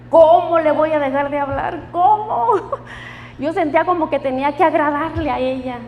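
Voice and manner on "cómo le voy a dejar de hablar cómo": laughing disbelief. Real, not acted. Laughing disbelief at God's request.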